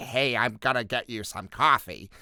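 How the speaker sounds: strained, forced, put-on American accent. Showing how someone straining to sound american would say a line, strained fake american accent. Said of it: "someone straining to sound American".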